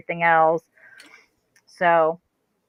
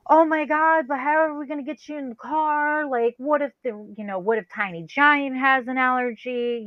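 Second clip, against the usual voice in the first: high-pitched mock fretting; panicked; 6 semitones higher than usual. Man worries about getting her in the car, panicked. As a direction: fret aloud, voice pitched well up.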